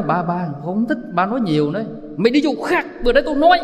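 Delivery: lightly voiced girl telling her father off; daughter scolding. Daughter tells tipsy father to stop talking, mock scold. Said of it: "Cái con gái mình tới nói".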